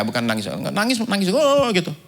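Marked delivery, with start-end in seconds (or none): 1.3-1.7 mock wailing cry, pitched up; imitated wailing. Preacher showing how the director bawled, mock wail. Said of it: "Nangis menggerung-gerung ya".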